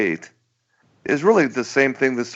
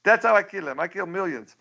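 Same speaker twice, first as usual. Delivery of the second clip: cartoon Pol Pot voice; 7 semitones higher than usual. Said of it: "He says".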